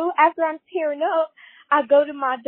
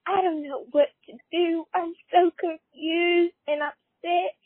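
tearful caller; 3 semitones higher than usual. Acted. Caller confessing her upset through tears.

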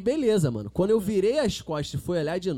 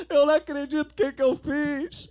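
mock yelling in despair; retold crying shout; 8 semitones higher, 3 dB louder than usual. Friend after kissing the drag queen, mild mock yell. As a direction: lightly shout it as the drunk friend. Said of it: "E gritando".

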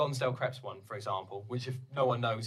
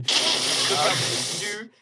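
rapper catchphrase; 7 semitones higher, 7 dB louder, slower than usual. Pretend. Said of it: "repeats own catchphrase".

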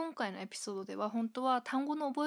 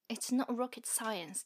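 put-on British accent quote; much slower than usual. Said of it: "っていうのも聞きます".

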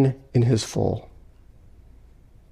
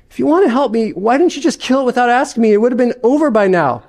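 higher, quick complaining ghost; whining ghost; 7 semitones higher, faster than usual. Acted. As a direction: ghost grumbling at the angel.

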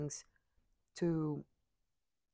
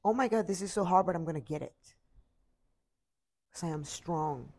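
louder and faster, fired up; determined outburst; 6 dB louder than usual. Retold or imitated. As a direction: push through the complaint with resolve. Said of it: "We have to focus on".

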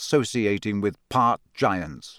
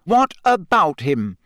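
hard voice; 5 semitones higher, 4 dB louder than usual. Acted. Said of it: "in a hard voice".

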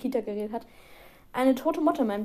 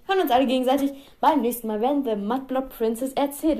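a quick radio-host sign-off. Real, not acted. Closing the podcast for listeners in a radio-host voice. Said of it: "so eine Radiostimme benutze".

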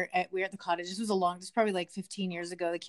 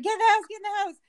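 put-on high, loud call to the kids; retold urgent shout; 11 semitones higher, 6 dB louder, faster than usual. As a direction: re-enact shouting children to safety. Urging kids away from raccoon.

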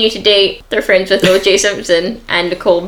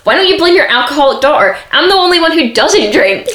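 upset retort; 6 semitones higher than usual. Retold or imitated. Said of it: "Kris is shouting at her and she's like".

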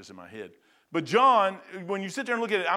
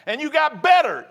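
captain's praise, building; 7 semitones higher, 7 dB louder than usual. Retold or imitated. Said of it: "I've had a captain say".

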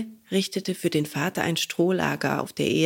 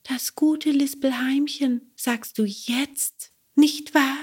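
high voice, slowed on sagst du jetzt; reproachful cricket; 7 semitones higher, slower than usual. Acted. Cricket mocks Bengele's greeting, reproachful. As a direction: throw his greeting back at him.

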